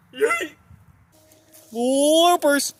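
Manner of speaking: loud, high cheer; excited. Real, not acted. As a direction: shout it out with glee. Cheering at the end.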